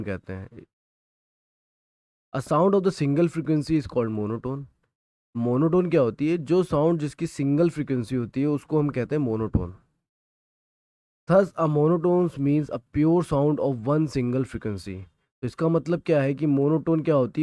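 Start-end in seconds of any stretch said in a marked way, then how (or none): 2.3-4.6 reading the textbook line word by word, slowly; slow, deliberate dictation for students to copy. Shown as a demonstration. Teacher dictating a textbook definition to students, slowly. 11.3-15.0 reading the textbook line word by word, slowly; slow, deliberate dictation for students to copy. Shown as a demonstration. Teacher dictating a textbook definition to students, slowly.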